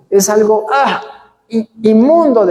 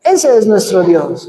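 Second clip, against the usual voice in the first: preaching shout; 2 semitones lower, slower than usual. Real, not acted. Preacher proclaiming after miracle story.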